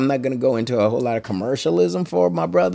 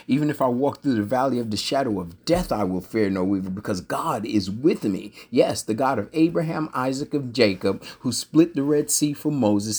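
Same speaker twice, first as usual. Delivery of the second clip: starting to preach; 2 semitones higher than usual. Real, not acted. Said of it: "y'all gonna make me start preaching".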